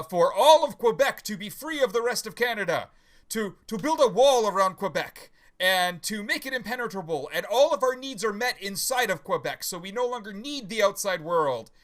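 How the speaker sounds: Quebecer making a wish. Acted. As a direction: declare a grand wish as the Quebecer. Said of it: "in his exact words".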